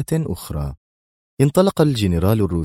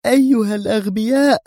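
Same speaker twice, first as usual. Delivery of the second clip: high, furious cry of insult; Sonia yelling; 14 semitones higher, 3 dB louder than usual. Acted. Sonia hurls an insult at the deserting men, high and furious. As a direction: spit out the insult in rage. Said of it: "صائحة".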